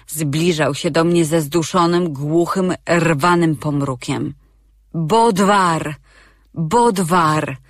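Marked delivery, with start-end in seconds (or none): 4.9-7.6 calling a name, moderately raised; mild calling out. Acted. Sigrun calls Bodwar for help, lightly raised. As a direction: call for help, not full volume. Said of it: "zaczęłam krzyczeć".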